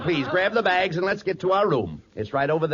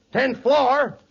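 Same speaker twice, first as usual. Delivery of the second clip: surprised; 6 semitones higher than usual. Acted. Abbott realizes the joke.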